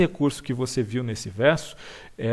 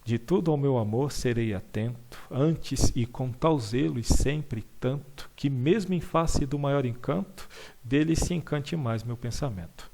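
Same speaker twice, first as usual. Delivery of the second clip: poem reading. Shown as a demonstration. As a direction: read it like a poem. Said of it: "Ele diz mais ou menos assim". (recitando um soneto)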